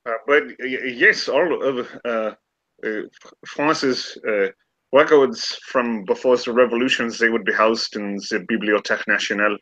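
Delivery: lightly French scholar; a hint of a French guide; French accent. Remy giving directions, light French accent. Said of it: "I keep going German".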